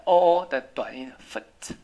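foot said with a short OO vowel. Shown as a demonstration. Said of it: "这是短的". (foot 的 O O 念短音)

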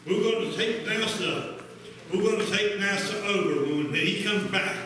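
fervent preaching. Real, not acted. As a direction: lift it up and preach to the church. Preacher working up the congregation.

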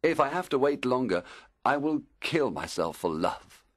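desperate lovesick plea; plead, dropping into a vow; impatient, anguished begging. Acted. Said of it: "begged Aurelius".

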